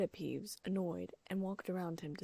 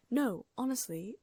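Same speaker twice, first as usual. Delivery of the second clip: pleading; 6 semitones higher, 6 dB louder than usual. A narrator's reading. Hermione pleading.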